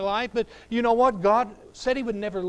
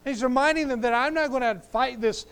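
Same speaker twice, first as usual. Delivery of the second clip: fervent preaching; 4 semitones higher, 6 dB louder than usual. Acted. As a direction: preach it out with full force. Preaching at full force.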